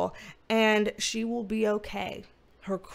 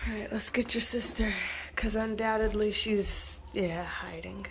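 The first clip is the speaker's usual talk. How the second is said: whisper; 3 semitones lower, 5 dB quieter than usual. Real, not acted. Whispering while fetching shy dog.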